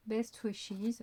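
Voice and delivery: English label read with a proud French-accented lilt; showy English accent. Real, not acted. Vlogger reading sticker words to viewers, showy English accent. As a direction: show off your English accent a little. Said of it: "vous avez vu mon accent de malade".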